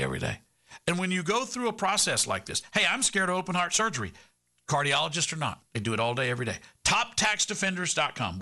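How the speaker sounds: emphatic live sponsor pitch; radio ad read. Real, not acted. Host urging small business owners to get tax help, radio ad read. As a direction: sell it straight to the listener, punching key phrases.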